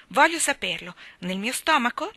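put-on high, loud child's demand; insistent little boy. A narrator's reading. Davy questioning Anna about conscience, insistent little boy. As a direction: insist like a curious small boy.

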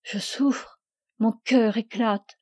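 slow, tearful, words catching in a sob; a young man in tears, heart breaking; weeping. Acted. Augustin weeping before his master, tearful and slow. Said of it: "Quoi, vous pleurez?".

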